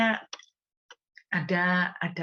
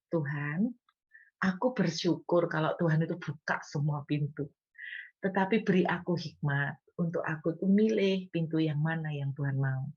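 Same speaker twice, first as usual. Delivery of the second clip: calm trusting prayer. Shown as a demonstration. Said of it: "kenapa ndak bilang begini".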